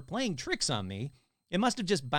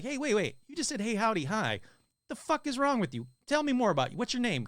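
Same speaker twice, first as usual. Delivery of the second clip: higher-pitched, urgent questioning; mock incredulous challenge; 6 semitones higher than usual. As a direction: demand answers from a talking cat, playfully. Acted confrontation with talking cat.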